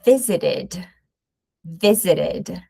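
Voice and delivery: visited with a clear -id ending; visited with an extra syllable. Shown as a demonstration. Teacher modelling visited for students. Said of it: "In American English is".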